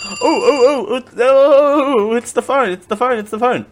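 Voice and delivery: high flustered yelps, slowing down; mock flustered panic. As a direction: pretend to panic at the ringing phone. Mock panic at ringing phone.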